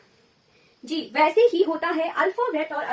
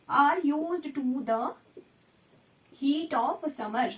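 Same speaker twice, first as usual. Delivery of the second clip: even slower, pausing mid-phrase; slower repeat; much slower than usual. Shown as a demonstration. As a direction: repeat it very slowly for students to write. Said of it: "example आया".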